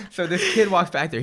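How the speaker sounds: still laughing. Real, not acted. Narrating while still laughing.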